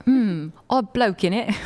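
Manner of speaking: slow, unbothered British "odd bloke in it"; dry British accent, unfazed. Retold or imitated. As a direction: shrug it off like a Brit. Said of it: "they'd be like".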